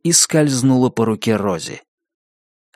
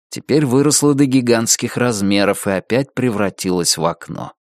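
ordinary delivery

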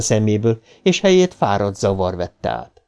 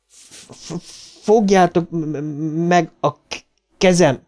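higher, stuttered plea for help; stammering scream; 7 semitones higher, slower than usual. A narrator's reading. Bill begs his friends to hold his hand, stuttering scream. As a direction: grab at them with a broken stammer. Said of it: "sikoltotta Bill".

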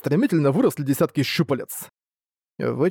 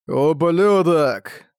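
slow, drawn-out furious curse; angry snarl; 3 dB louder, much slower than usual. Acted. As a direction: spit the insult out slowly. Ark curses the giant demon.

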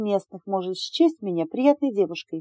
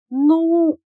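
high, loud confident "ну"; confident start; 9 semitones higher, 6 dB louder than usual. A narrator's reading. Candidate bluffing confidence before the board, loud. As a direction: start boldly then stall. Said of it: "уверенно сказала я".

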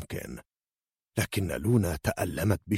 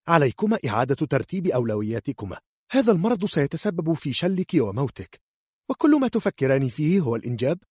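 angry scolding; 8 semitones higher than usual. Acted. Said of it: "صاحت بغضب".

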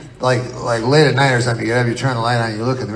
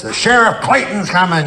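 lightly voiced lookout, higher pitched; town crier announcement; 5 semitones higher than usual. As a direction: announce the sheriff's arrival, pitched up. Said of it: "there'd be a guy in the voice".

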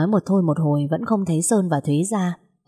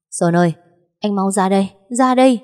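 calling out; 3 semitones higher, 4 dB louder than usual. Acted. Thúy calling Sơn to the window, rising loud call. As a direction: call him over, urgent and louder at the end.

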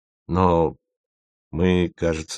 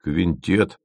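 tentative suggestion, at usual pitch; cautious. Acted. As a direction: offer it carefully, testing the idea. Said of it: "осторожно промолвил Пармезан". (осторожно)

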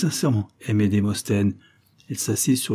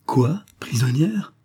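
higher, breathless whisper of shock; shocked cry; 4 semitones higher, slower than usual. Acted. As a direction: gasp out the question in disbelief. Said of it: "s'écria Thérèse".

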